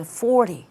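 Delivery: "Forty" whispered, its t flapped soft like "fordy"; linked soft t. Shown as a demonstration. Teacher whispering the flapped t in "Forty". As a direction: murmur "Forty" with a light flapped t. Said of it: "연음도 되죠".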